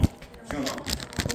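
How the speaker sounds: slow, breathy sleepy drone. Shown as a demonstration. Speaker shows the students a sleepy tone on purpose. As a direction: let the question sag as if half asleep. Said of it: "Tá parecendo que eu tô com sono?".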